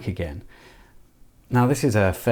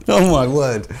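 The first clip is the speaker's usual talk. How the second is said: louder startled exclamation; oh my word; 5 semitones higher, 7 dB louder than usual. Real, not acted. Maker reacting to plastic cracking, startled exclaim. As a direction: caught off guard, exclaim it.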